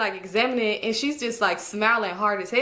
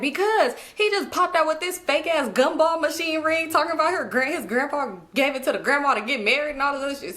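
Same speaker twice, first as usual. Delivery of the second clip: mocking uncle; 4 semitones higher than usual. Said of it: "my uncle like".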